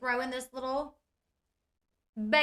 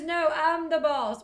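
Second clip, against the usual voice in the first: a louder, slow, mock-stubborn kid voice; bossy little girl; 4 semitones higher, 5 dB louder, slower than usual. Little girl telling the interviewer she is the boss, in a slow mock-stubborn child voice. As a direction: plant your feet like a small bossy child.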